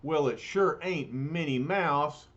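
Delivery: streetwise bruiser, lightly voiced; rough, folksy big lug; gruff tough guy voice. The Thing quips.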